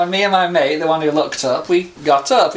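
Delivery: usual speaking voice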